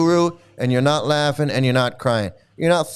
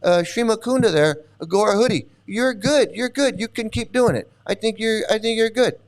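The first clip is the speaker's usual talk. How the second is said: quoting Prabhupada; 4 semitones higher than usual. Retold or imitated. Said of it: "Prabhupada said".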